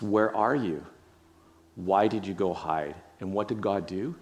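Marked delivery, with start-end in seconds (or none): 0.0-2.9 gentle seeking tone. Shown as a demonstration. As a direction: ask it tenderly, like a worried parent.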